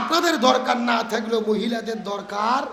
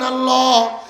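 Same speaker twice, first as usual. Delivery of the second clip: loud, sustained cry to God; preacher's voicing of a plea; imitated supplication; 2 semitones higher, 6 dB louder, slower than usual. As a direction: call out in retold prayer, holding the word. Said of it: "ফরিয়াদ করে ডাকতে বলেন".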